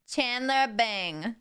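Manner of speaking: slow, nasal sitcom drawl; Janice from Friends. Acted. Streamer imitating a sitcom character, slow nasal impression. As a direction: draw the name out with an exaggerated nasal twang. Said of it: "She's much more nasal".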